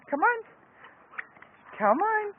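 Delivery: high squeaky dog-talk voice; squeaky praising a dog. Real, not acted.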